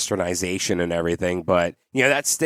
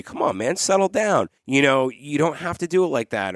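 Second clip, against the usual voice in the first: firm but kind scolding; 3 semitones higher than usual. Retold or imitated. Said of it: "in a way where you get them to understand".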